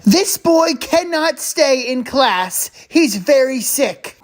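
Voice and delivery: emphatic, measured declaration; firm verdict. Acted. Nurse overrules mother about sick boy, firm. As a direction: lay down the ruling forcefully.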